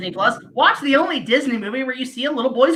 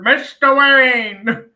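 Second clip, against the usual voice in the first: slow dramatic movie call; 4 dB louder, much slower than usual. Retold or imitated. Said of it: "I just hear that opening to Batman Forever".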